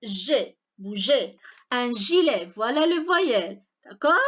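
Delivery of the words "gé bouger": "bouger" with G said as a soft zh. Shown as a demonstration. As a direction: model "bouger" slowly, zh before the final é. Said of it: "Donc, se prononce G".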